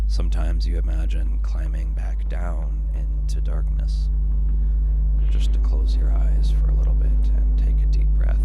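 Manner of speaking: hushed, breathy whisper of a longing to give up; whispered narration. A narrator's reading. Narrator whispering the wish to climb down, hushed. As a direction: whisper it like a secret wish to stop.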